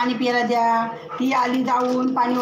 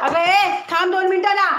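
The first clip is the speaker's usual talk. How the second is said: loud high shout; calling out to stop; 7 semitones higher, 5 dB louder than usual. Real, not acted. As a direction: shout to make them wait. Stopping someone, calling out.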